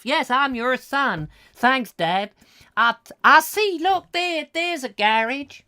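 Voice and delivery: very high, loud, slow boyish put-on; American son character. Son spotting a garage for Dad, high hammy American. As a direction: pitch it right up as an eager son.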